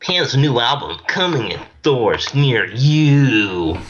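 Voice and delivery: slow, stretched-out promo read; hammed-up album plug; mock ad announcer. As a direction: draw it out like a fake commercial. Fake advert for friend's album.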